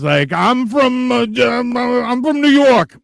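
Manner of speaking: high, slow stumbling mock voice; high slow flustered impression of the viewer; mock stammering Bodhi. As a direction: stammer it out like a caught liar. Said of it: "and he says".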